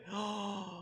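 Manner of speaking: high, soft intake of breath; acted gasp of joy; delighted gasp. Acts out Zacchaeus's delight hosting Jesus.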